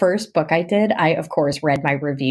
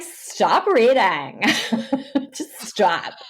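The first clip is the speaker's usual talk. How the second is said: mock plea; 3 semitones higher, much slower than usual. Mock reaction to prolific reading.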